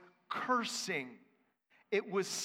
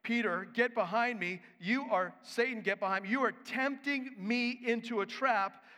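Jesus rebuking; 5 semitones higher, 3 dB louder than usual. Retold or imitated. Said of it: "Jesus is saying".

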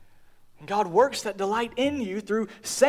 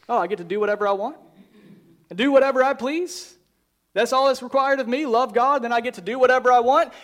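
fast, breezy mock self-justifying voice; mock careless believer; much faster than usual. Pastor mocking the misreading of the quote, fast and breezy. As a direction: rattle it off like a shallow excuse. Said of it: "we misunderstand that quote".

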